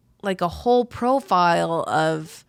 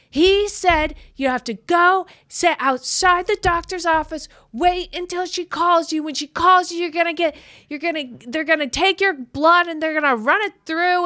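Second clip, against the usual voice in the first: high, rapid explaining clerk voice; mock receptionist; 9 semitones higher, 5 dB louder than usual. The girl at the desk explaining tests, high put-on voice. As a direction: rattle off instructions in a high put-on voice.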